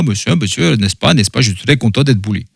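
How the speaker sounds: hammed-up old Russian accent, rolled Rs; cheesy Russian accent, lightly voiced; Bully. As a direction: do a lousy eighties-movie Russian accent. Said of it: "parle un peu comme ça".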